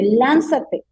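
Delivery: lightly voiced dark voice urging her to jump; enemy's voice. Woman retelling how the enemy's voice told her to jump, mildly commanding. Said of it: "la voz del enemigo".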